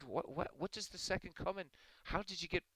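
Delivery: high, stammering priest; baffled priest. Acted. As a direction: play a priest utterly puzzled by a confession. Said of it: "And the priest said".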